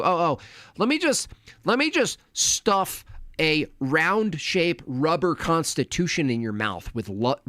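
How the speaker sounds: hammed-up mocking retort, stretching the punch words; mock indignant retort. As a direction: act out a sarcastic, worked-up comeback. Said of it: "He was like".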